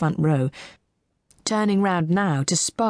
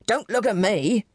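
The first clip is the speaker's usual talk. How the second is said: lightly agitated, higher-pitched plea; agitated pleading; 4 semitones higher than usual. A narrator's reading. Broad man to staring onlookers, mildly pleading. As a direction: protest with a touch of agitation. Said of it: "he pleaded to the newest rows of onlookers".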